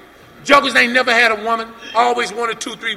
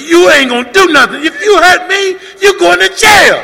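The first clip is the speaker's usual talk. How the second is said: loud, higher warning shout; retold threat; 8 semitones higher, 7 dB louder than usual. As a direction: throw the jail threat back at him. Friend threatens him back.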